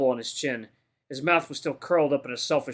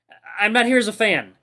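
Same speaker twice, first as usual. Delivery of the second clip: raised, louder stammering protest; stammer, then yell it to stop him; frightened rookie crying out; fearful yell; 6 semitones higher, 6 dB louder than usual. A narrator's reading. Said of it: "I yell, mostly out of fear".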